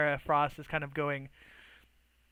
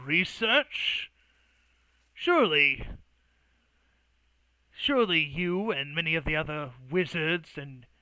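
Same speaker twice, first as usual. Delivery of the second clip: slow, measured in-character persuasion; reasoning negotiator; slower than usual. Acted. Artorias offering the mage a compromise, measured and reasoning. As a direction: coax him with deliberate pauses. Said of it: "simply goes".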